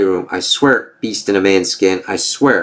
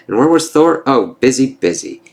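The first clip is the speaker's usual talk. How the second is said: mocking taunt; 4 semitones higher than usual.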